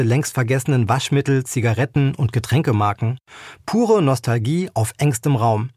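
measured, clearly articulated novel reading; story narration. A narrator's reading. Author reading her novel to listeners, story narration. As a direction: read the story aloud evenly, with light character touches.

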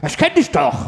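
imitated excited recognition, lightly voiced; mildly eager mock courier. Courier recognizing a customer, mildly excited imitation. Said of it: "so sehr aufgeregt".

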